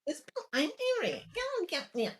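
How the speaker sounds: high, fast cutesy voice; bubbly cute squeak. Retold or imitated. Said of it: "a super cutesy voice".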